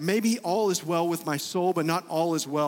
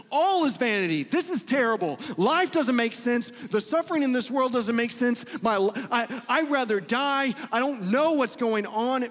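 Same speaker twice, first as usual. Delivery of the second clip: despairing lament; 4 semitones higher than usual. Retold or imitated. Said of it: "what happens in Lamentations is he says".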